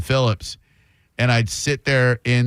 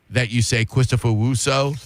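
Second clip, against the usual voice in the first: Chris Russo voice. Retold or imitated. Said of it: "is it a cleft palate".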